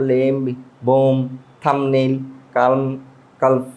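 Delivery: put-on লেম, বোম, থাম্বনেইল the old learner's way, L sounded in কালম, কালফ; common mispronunciations. Shown as a demonstration. Teacher recaps how we used to pronounce these, common mispronunciations. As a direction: list the words as wrongly said, level tune. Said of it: "normally কিন্তু আমরা এইগুলো উচ্চারণ করতাম".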